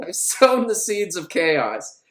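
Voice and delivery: slow, savoring villain line; slow villain gloat. Retold or imitated. Guard Muncie gloating to himself after leaving, slow villain voice. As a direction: drag out each word like a smug villain. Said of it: "He's like".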